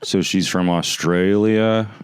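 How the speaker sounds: slow, drawn-out mock interest; sarcastic. Host performing on request for guest, sarcastic. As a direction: stretch it out with heavy sarcasm. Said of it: "Say something sarcastic".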